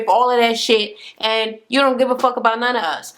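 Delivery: imitated heated telling-off; going off. Sister scolding her for disrespecting the family, heated. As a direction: act out a sister reading her out. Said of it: "She went the fuck off".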